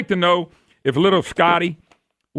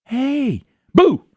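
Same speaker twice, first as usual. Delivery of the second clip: sneak up and say boo; mock teasing scare; 4 semitones higher, slower than usual. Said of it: "A pack comes along and goes".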